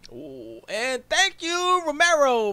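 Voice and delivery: high, loud, drawn-out thank-you; mock big announcement; show announcer. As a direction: belt it out like a show intro.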